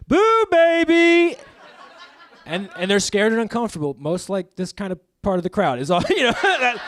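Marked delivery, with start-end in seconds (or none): 0.1-1.4 drawn-out high, loud ghostly boo; campy drag ghost jump-scare shout. Pretend. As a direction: pop out and spook them, slow and high. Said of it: "I poof in there like".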